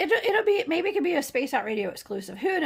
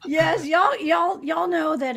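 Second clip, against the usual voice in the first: put-on Georgian accent; 4 semitones higher, 4 dB louder, much slower than usual. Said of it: "say in that Georgian accent".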